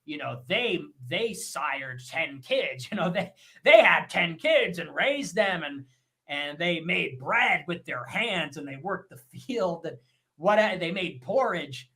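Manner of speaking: a hint of a nostalgic boomer lecturing; mocking an old man praising past wives; boomer impression. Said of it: "a boomer would say".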